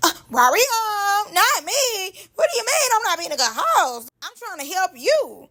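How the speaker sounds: put-on high, defensive, pleading voice. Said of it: "So she like".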